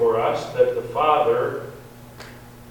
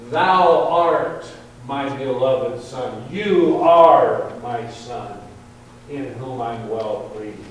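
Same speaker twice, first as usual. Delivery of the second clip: intimate Father to Son; 4 dB louder than usual. Shown as a demonstration. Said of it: "as if it were meant to be something special".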